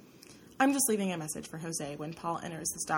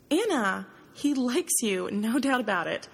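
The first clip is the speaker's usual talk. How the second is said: higher and louder, insisting hard; emphatic; 4 semitones higher, 5 dB louder than usual. Acted. Roommate insisting he likes Anna, emphatic and loud. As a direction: press the point so she can't argue. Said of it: "Her tone is emphatic".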